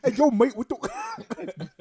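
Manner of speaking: squeaky, loud mock cockney; high mock cockney shout. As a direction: yelp it as a cockney bloke. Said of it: "mocking the cockney impression".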